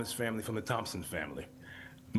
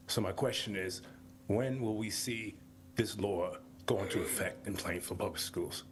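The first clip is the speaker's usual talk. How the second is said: out of breath. Real, not acted. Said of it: "I'm sorry, I'm out of breath. I was working out".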